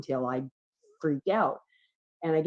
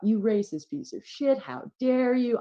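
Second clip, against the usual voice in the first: retold screaming; 8 semitones higher than usual. Drunk friend defending driver from cop, mock screaming. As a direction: imitate an outraged yell, drawing out the end. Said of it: "I start screaming at this cop".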